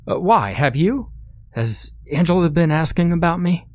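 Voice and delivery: high, worried questions; anxious voice. A narrator's reading. Ryan asking David if Angela is looking, anxious high voice. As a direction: fret about being found.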